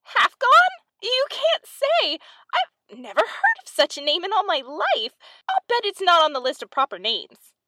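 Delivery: very high, loud squeak of disbelief, easing slightly; incredulous mouse. A narrator's reading. Mouse disputes the cat's second name, high incredulous exclamation.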